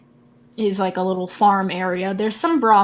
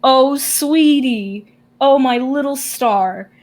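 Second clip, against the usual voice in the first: slow, higher-pitched doting coo; doting grandma; 3 semitones higher, 5 dB louder, slower than usual. Acted. Grandma hugs Orion up in her arms, doting and drawn-out. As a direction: gush over your darling, drawing it out loudly. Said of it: "hugs him and is like".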